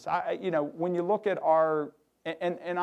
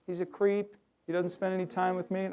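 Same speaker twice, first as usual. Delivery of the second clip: anonymous complaint; 4 semitones higher than usual. Retold or imitated. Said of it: "Tell us about Dan Lassick".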